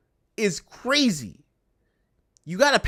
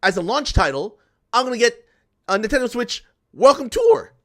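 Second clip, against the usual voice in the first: mock eager buyer; 3 semitones higher, 3 dB louder than usual. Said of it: "who in their right mind is gonna be like".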